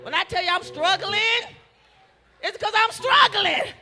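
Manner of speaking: rising preacher's cadence, building to a shout; preaching at full force. Acted. Preacher building up the congregation, full-force preaching. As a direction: preach it, climbing with the crowd.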